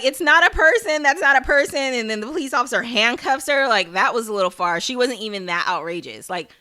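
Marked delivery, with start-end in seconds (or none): 0.0-1.8 mock panicked insistence. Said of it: "Tabitha's like".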